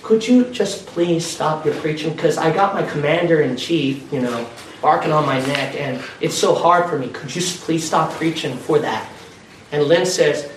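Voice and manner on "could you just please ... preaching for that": a hint of a pleading sheriff, softer; lightly played, quiet plea to stop; begging sheriff. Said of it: "he begged him".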